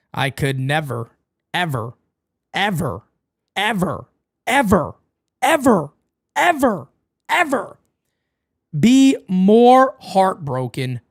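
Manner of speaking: stack the evers upward like a hammed-up lament; building mock despair. Streamer to chat viewer, hammed-up building lament.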